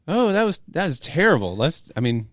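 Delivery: high, loud mock letdown; disappointed hype man. Pastor scolding a flat crowd in loud, high mock dismay. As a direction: act let down, then rally them.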